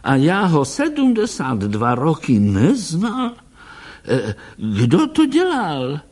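put-on an old man charmed by the poem; a hint of a high old doctor's voice.

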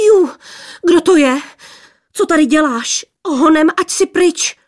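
put-on high, loud girlish squeals; indignant high-pitched shrieking; angry squealing. A narrator's reading. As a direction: shoo off an intruder in squeals. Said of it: "Pištěli jedna přes druhou".

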